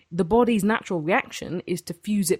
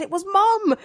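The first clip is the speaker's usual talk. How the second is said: high pained reply; 14 semitones higher, 5 dB louder than usual. Retold or imitated. Retold telling sister who hit her.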